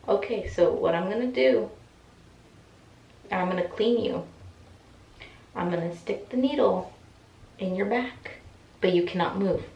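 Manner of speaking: measured, halting instructions; doctor spelling out each step with big gaps; slow-talking doctor. Retold or imitated. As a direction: imitate a plodding explainer, long pauses between phrases. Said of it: "He was talking so very slow".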